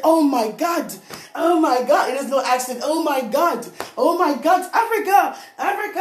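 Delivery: hammed-up astonished cab driver; dramatic amazement. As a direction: gush in wonder like the amazed driver. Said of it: "he was so dramatic about it".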